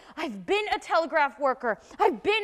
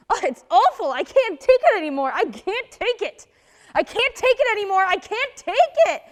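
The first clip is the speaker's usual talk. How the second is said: louder, rising despair that builds to a broken laugh; distraught outburst; 3 semitones higher, 6 dB louder than usual. Acted. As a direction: come apart over the repeated words. Breakdown over her brother.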